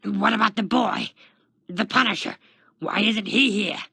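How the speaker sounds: loud, high questioning shout; agitated demand. A narrator's reading. Taskmaster demands the boy's whereabouts from the guard, shouting. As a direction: fire out each question loudly.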